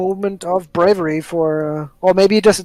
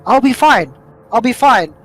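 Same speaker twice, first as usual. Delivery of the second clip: character's inner reassurance; 4 semitones higher, 5 dB louder than usual. Acted. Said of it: "and thinks".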